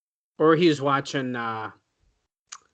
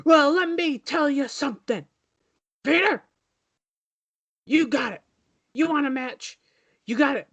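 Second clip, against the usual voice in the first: hammed-up wrestler's promo, pitched up; Ric Flair; 4 semitones higher than usual. Wrestler answering the interviewer's question, hammed-up high promo voice. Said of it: "Rick, what do you gotta say".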